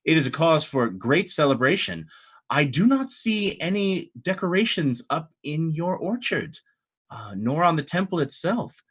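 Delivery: lightly voiced indignant clergyman; pompous church official. Church official demands celebration of the abbess, pompous. Game master plays Hope Master.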